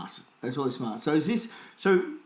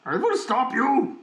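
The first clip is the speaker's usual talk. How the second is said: villain voice; 10 semitones higher, 5 dB louder, slower than usual. Pretend. Mock villain threat.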